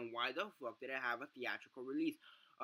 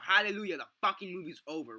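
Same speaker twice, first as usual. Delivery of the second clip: loud, high mock-joyful yell; retold screaming relief, higher and louder; screamed out; 6 semitones higher, 10 dB louder than usual. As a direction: shout it like a victory cry. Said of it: "I literally screamed out".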